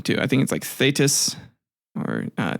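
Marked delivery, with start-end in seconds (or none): 0.6-1.4 "Thetis" as THAY-tuss; tentative pronunciation. Shown as a demonstration. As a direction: say "Thetis" with an AY first and a short, weak ending. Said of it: "I might be pronouncing her name wrong".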